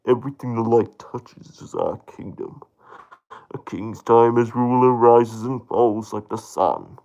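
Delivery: a lightly deepened regal father voice; the lion king teaching his son about the kingdom; Mufasa impression. Shown as a demonstration. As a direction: speak with calm royal gravity. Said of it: "uh, Mufasa".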